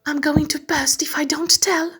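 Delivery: bursting. Acted. Meg can't keep secret.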